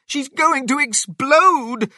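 very high, loud character shout; shouting wife. A narrator's reading. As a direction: shout the alarm at your husband. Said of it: "Missus Cranky shouted at her husband".

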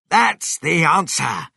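high, loud exclamation; crying out. A narrator's reading. Mister Cranky hearing of the car oil, crying out. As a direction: cry it out like a discovery. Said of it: "Mister Cranky cried".

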